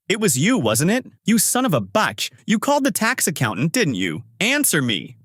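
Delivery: high-pitched accusing outburst; angry yelling. A narrator's reading. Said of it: "He continues yelling".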